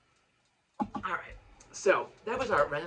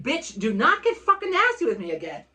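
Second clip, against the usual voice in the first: louder, higher angry thought; angry inner voice; 5 semitones higher, 7 dB louder than usual. Retold or imitated. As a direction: snap it in your head. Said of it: "I'm thinking".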